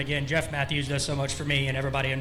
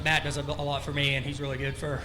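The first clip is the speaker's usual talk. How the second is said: out of breath. Real, not acted. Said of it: "damn, I'm out of breath".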